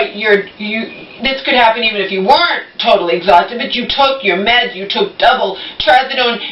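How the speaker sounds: confronting mom about the chicken left in the oven; angry scolding. Retold or imitated. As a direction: scold her mom, building to outrage. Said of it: "I'm yelling now".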